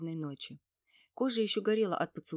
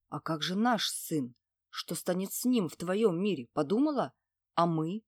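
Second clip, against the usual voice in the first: cruel demon; 4 dB louder than usual. Acted. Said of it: "Голос демона обрёл жестокость".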